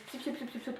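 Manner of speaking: quick little squirty noises; light "tchoup-tchoup" mouth sound effect; imitated product sound. Shown as a demonstration. Showing viewers how to apply the cream, imitated squirty noises.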